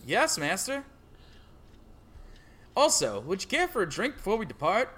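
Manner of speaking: stereotype farmer impression; lightly voiced country farmer. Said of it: "farmer stereotype impression".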